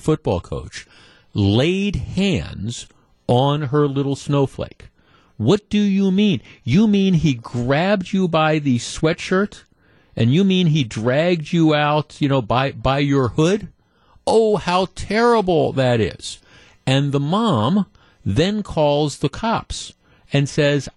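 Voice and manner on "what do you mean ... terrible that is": mock outraged mother. Mother questioning her little snowflake about the coach, mock outrage. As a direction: ham up a mother's scandalized disbelief. Mocks indignant mother of the kid.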